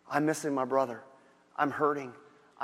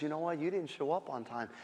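quiet tearful Martha; 4 dB quieter than usual. Acted.

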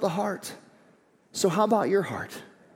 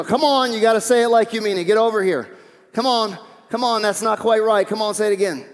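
put-on louder parent urging a child to apologize properly; coaxing parent; 3 semitones higher, 4 dB louder than usual. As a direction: push the kid to say it like they mean it.

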